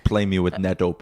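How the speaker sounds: light imitated Russian accent; a hint of a thick Russian accent. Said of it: "in his thick Russian accent".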